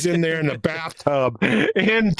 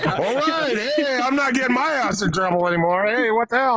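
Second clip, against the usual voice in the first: put-on higher, laughing kid's protest; mock protesting kid; 10 semitones higher than usual. Retelling his protest to mom, high mock innocent voice. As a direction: play the innocent kid defending himself. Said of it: "I'm going".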